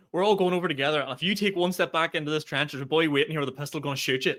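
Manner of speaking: lightly voiced officer rallying the troops; rally them like going over the top; mock pep talk in an officer's tone; a hint of trench officer. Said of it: "the World War Two trenches".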